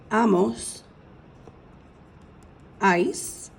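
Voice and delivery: each ending said slowly with pauses; slow drilled endings. Shown as a demonstration. Teacher drilling verb endings for students, slow and clear. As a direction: drill the Spanish endings one at a time. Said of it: "one more time, pronouncing them".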